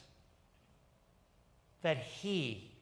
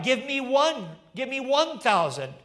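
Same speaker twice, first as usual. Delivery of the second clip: higher, louder auctioneer's rising bids; auctioneer crying out; 4 semitones higher, 8 dB louder than usual. Acted. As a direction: rattle off the bids to the crowd. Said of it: "And then he cried out".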